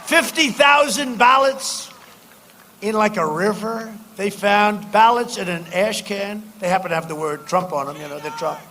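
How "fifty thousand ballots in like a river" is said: outraged shout. Real, not acted. Outrage over found ballots.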